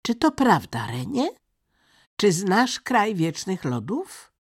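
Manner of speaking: high, loud questioning; insistent high-voiced girl; demanding robber girl.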